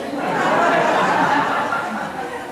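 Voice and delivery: unvoiced burst of laughter; laughing at his own story; breathy laugh. Real, not acted. The speaker laughing at the tumbleweed joke.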